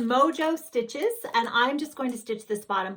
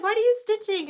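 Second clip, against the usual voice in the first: cheerful question; 12 semitones higher, 6 dB louder than usual. Retold or imitated.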